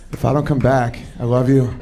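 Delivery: a soldier off to war; mock heroic farewell. Boyfriend fetching a blanket like a hero, mock heroic farewell. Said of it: "you're like".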